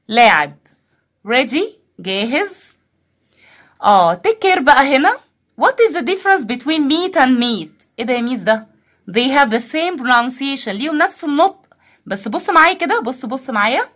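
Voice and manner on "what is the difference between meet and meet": What is the difference, said slowly; teacher slowly posing a question to the class. Shown as a demonstration. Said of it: "slow teacher question".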